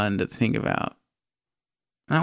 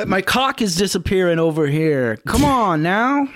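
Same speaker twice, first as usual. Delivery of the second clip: turtle impression; 4 semitones higher than usual. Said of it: "turtle impression".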